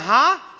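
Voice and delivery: sudden loud "hah" gasp; mulut terbuka paksa. Retold or imitated. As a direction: burst open with a loud imitated gasp. Imitates mouth popping open. (sentakan "hah" yang keras)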